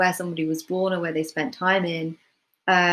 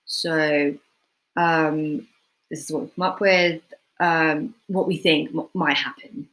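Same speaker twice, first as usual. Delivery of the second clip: hesitant, with pauses and ums; nervous presenter. Shown as a demonstration. Presenting results at work, unsure and hesitant. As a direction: hedge and stumble through it. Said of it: "non-confident speaker would say the same thing".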